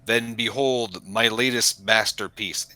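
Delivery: flat, synthetic machine voice; deadpan robot voice. Acted. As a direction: say it like a robot with no feeling. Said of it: "Completely deadpan, synthetic voice".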